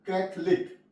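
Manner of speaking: कैथलिक as kath-lik, dropping the o; silent o. Shown as a demonstration. Teacher corrects students with the right कैथलिक. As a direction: give कैथलिक crisply in two syllables. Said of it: "अगर इसे कैथोलिक पढ़ेंगे तो गलत हो जाएगा".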